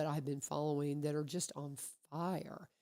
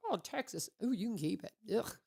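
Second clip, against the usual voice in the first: exaggerated distaste, opening higher on a groan; mock disgust; 4 semitones higher than usual. Woman voicing everybody's dislike of Texas, mock disgust. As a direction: recoil with an "ugh".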